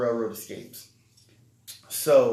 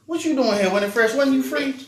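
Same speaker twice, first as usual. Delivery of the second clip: imitating mom; 13 semitones higher, 7 dB louder than usual. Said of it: "She's like".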